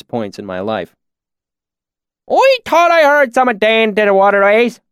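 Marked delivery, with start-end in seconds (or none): 2.3-4.8 put-on loud, high rustic swineherd in a thick accent; thick, oily valley accent. A narrator's reading. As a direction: lay on the backwoods valley dialect. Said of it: "his accent so thick and oily".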